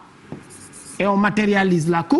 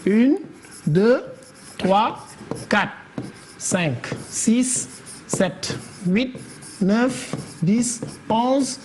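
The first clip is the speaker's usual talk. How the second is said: measured count with a pause after each number; spaced-out counting; 5 dB quieter, much slower than usual. Shown as a demonstration. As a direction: count syllables aloud, one number at a time. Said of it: "nous allons compter pour voir".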